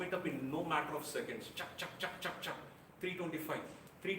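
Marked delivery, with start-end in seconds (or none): 1.5-2.5 whispered chuck chuck like a ticking timer; mock clock ticking. The speaker imitating the timer running out, a whispered mock ticking. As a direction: tick the seconds off in a breathy whisper.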